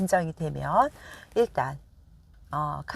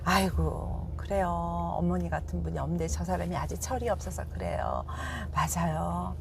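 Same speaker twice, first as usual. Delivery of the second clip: softer, sweet talk to soothe his mother; soft, placating son calming his mother down; coaxing son; 5 dB quieter than usual. Shown as a demonstration. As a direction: coax mother softly to make peace. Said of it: "지혜로운 남편은 어떻게 해요?".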